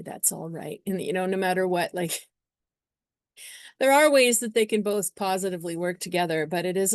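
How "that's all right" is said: cooing. Acted. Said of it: "start sort of cooing".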